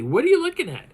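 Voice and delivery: high, loud "What are you looking at?"; called-out question. Retold or imitated. Trying to talk to the watching face: high called-out question. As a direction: call it up to him, half laughing. Calling out to the creature.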